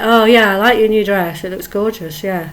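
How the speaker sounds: flat, dropping, unconvinced praise; half-hearted dismissive compliment; insincere compliment. Shown as a demonstration. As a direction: say it without meaning it. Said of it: "then people don't believe us".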